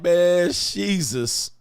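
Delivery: drawn-out, slow exasperated sigh of a line. Retold or imitated. Reacting to a lying bragger, slow exasperated groan. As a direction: groan it out like you can't believe the lie.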